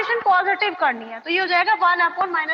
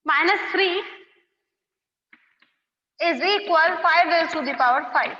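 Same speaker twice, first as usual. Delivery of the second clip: slow, word by word, for copying; slow dictation; much slower than usual. Shown as a demonstration. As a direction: spell it out slowly so they can write. Dictating question five. (धीरे-धीरे लिखवाते हुए)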